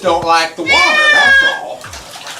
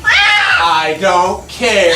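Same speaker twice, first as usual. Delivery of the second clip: slow drawn-out; 4 semitones lower, much slower than usual. Real, not acted. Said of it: "repeated line".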